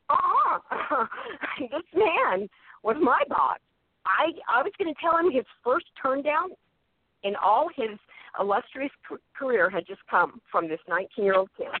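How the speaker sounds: high, amused telling of the boss; mock incredulous. Retelling Owen's shock at the boss's first turn-down, high and amused. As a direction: voice lifts high, laughing at the idea.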